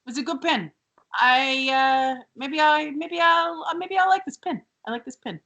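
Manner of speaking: lightly voiced impression, halting and grudgingly approving; Robert De Niro. Rose warming to the pin, as a light De Niro impression. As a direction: mull it over with a hint of an impression. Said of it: "She turns into, apparently, Robert De Niro".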